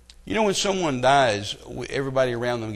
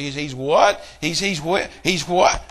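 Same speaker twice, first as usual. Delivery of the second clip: incredulous yell; 2 semitones higher, 3 dB louder, slower than usual. Retold or imitated. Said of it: "And I'm yelling in Ukraine".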